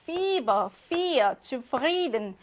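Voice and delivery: 피버, 피어, 주프리든 with the i stressed and held long; long stressed vowel. Shown as a demonstration. Teacher giving examples of stressed ie, long i in 피버, 피어, 주프리든. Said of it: "요렇게 강세를 받고 길게".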